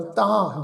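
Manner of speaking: ਤਾਂ with a nasalised long vowel; nasal pronunciation. Shown as a demonstration. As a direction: let the vowel of ਤਾਂ ring through the nose. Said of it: "ਤੱਤੇ ਨੂੰ ਕੰਨਾਂ ਉੱਤੇ ਬਿੰਦੀ ਸਹਿਤ ਨਾਸਕੀ ਉਚਾਰਨ".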